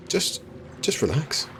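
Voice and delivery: slow, breathy, half-whispered calming; mock soothing whisper. Streamer mock-calming herself for chat, slow teasing whisper. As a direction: tease the chat with a fake soothing hush.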